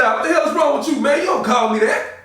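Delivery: shouted warning, offended; angry shout. Acted. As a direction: bark it back at her. Angry at the insult puta.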